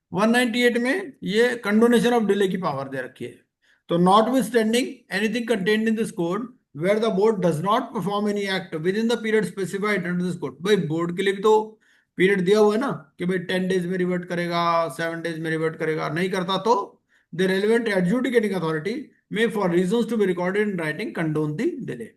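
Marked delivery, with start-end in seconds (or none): 4.0-10.6 reading the law aloud, very slowly and deliberately; slow statute reading. Acted. Teacher reading the code to students, slow and measured. 17.3-22.1 reading the law aloud, very slowly and deliberately; slow statute reading. Acted. Teacher reading the code to students, slow and measured.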